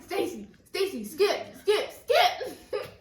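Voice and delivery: rising, giggly panicked calls; laughing panic. Retold or imitated. Girl laughing as she retells panicking at Stacy. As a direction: laugh and beg her to skip.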